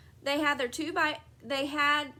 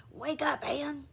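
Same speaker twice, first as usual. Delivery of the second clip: scary and urgent; 3 semitones higher than usual. Acted. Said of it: "making her voice scary and urgent".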